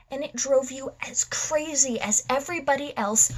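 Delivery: theatrical madman monologue. Acted. Madman telling his foe why he dresses up, theatrical taunting. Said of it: "I will be performing One Bad Day from The Killing Joke".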